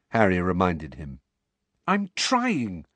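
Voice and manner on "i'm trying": miserable. A narrator's reading. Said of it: "said Neville miserably".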